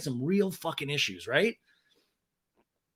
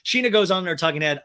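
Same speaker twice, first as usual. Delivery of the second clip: usual speaking voice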